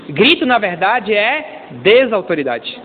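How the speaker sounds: slow it down and land each word; a teacher's slow punchline; slow emphatic point. Shown as a demonstration. Pastor slowing to stress a point to church, measured. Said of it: "slow emphatic point".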